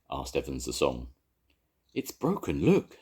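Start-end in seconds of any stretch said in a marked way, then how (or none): 1.9-3.0 Jones excited. A narrator's reading. Jones showing the broken egg, rising excitedly. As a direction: point it out with a sudden lift. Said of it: "said Jones".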